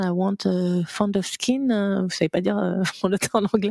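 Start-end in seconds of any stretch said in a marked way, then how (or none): 0.0-1.7 broken English. Retold or imitated. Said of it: "je demande à la dame".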